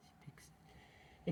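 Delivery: slow, drawn-out unvoiced whisper. Real, not acted. Whispers to viewers that she hears it, slow. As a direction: breathe it out slowly like a secret. Secretive aside about the recording.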